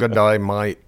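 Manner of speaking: lightly put-on Australian greeting; playful attempt at Australian; mock Australian accent. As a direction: try a casual Aussie accent. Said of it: "it's gonna become Australian".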